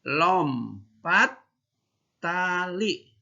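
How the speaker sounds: "Lompat" rising, "tali" high; word by word for kids; model for repeating. Shown as a demonstration. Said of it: "Yuk, yang keras".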